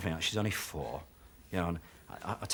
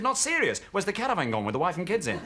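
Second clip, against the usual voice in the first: much higher, hammed-up indignation; outraged disbelief; 7 semitones higher than usual. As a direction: squeak out the outrage. Motorist outraged.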